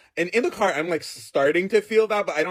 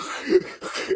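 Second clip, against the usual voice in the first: voiceless wheeze; imitated asthmatic wheezing; acted struggle to breathe. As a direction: gasp for air instead of answering. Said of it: "I'm like".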